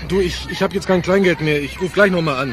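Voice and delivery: tinny voice through a phone line. Acted. Anruf über Telefonzelle. (Stimme durchs Telefon)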